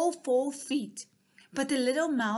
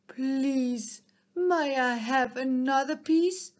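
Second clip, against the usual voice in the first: humble; 3 semitones higher, 6 dB louder than usual. Acted. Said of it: "he asked quite humbly".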